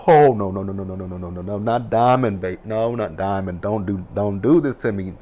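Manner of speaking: rapid string of pleading no's after a loud start; dismayed protest. Retold or imitated. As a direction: protest in mock panic, begging. Acting out panic as Diamond is threatened.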